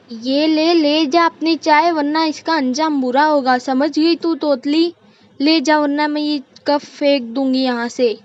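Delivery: mother-in-law scolding in a rush of temper; angry threat. Acted. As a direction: threaten her and shove the tea back. Acted threat to throw the cup.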